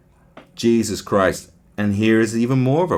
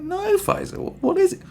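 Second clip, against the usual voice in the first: much higher, curious voice; pitched-up, wide-eyed question; mock second jihadi. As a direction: play the eager friend asking for gossip. Second ISIS member answering.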